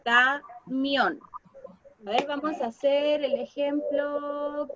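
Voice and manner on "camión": Camión in two drawn-out syllables, weight on MIÓN; slow demonstration of Camión, MIÓN marked; stress on MIÓN. Shown as a demonstration. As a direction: separate Ca from MIÓN, stressing the end. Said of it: "que suena más fuerte".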